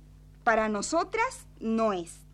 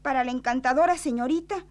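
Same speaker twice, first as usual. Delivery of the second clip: quick reread; 4 dB louder, faster than usual. Acted. Rereading envelope, hiding the name.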